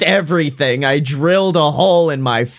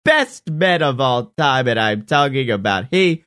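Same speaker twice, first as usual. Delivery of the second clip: ringmaster. Pretend. Show intro announcement.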